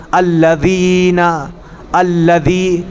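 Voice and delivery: "الذین", "الذی" with tongue tip between the teeth; slow, careful voiced th in "الذین" and "الذی"; dhāl demonstration. Shown as a demonstration. Teacher models for students, "الذین" and "الذی" with a careful dhāl. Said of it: "زبان کی نوک کو باہر نکالیے".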